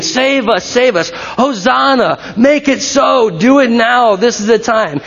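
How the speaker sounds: urgent plea, short of a real scream; mild mock screaming. Crowd screaming to Jesus as he comes, urgent mild cry. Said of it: "And they're screaming".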